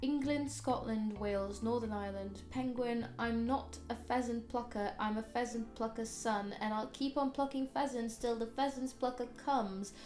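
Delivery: careful word-by-word reading, mixed British accent; mixed British accent, accent challenge list; reading a word list in her accent. Shown as a demonstration. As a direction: say each word like a test card. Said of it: "Pronounce the following words".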